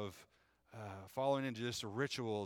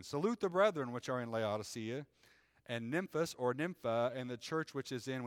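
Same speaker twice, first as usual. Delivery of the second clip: measured, raised reading voice; scripture reading. Acted. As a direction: read it like the pulpit Bible. Reads scripture aloud.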